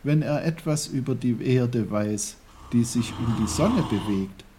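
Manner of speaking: put-on high-pitched little-boy voice; pondering boy Peter. A narrator's reading. Peter works it out and asks his uncle, high. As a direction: think it out in a high child's voice.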